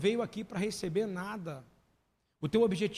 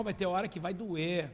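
usual speaking voice

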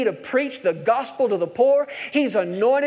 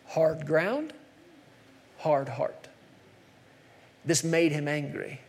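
hushed emphasis; 6 semitones lower, 6 dB quieter, slower than usual. Acted. Preacher drops voice for emphasis.

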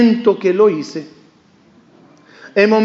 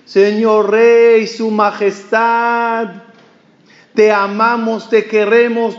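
calling out to the king; much slower than usual. Retold or imitated. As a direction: hail the passing king from afar, stretching the words. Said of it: "empieza a gritarle al rey". (grito lento y alargado al rey)

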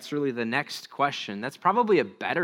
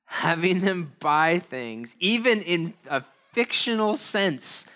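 emphatic article reading; reading aloud; 4 semitones higher, 3 dB louder than usual. Acted. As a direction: read it out deliberately, leaning on key words.

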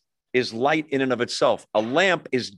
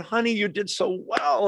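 lightly voiced parent; 7 semitones higher than usual. Parents comforting daughter backstage.

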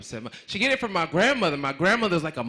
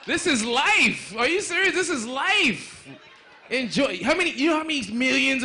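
high emphatic declaration; 8 semitones higher than usual. Real, not acted. Hyping crowd.

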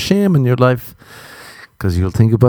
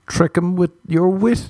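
sly advice; 8 semitones higher than usual. Pretend. Slow high sly advice.

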